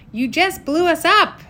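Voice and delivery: high, loud squeak of disbelief. A narrator's reading. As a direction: shriek it, shocked and indignant. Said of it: "Sage squeaked".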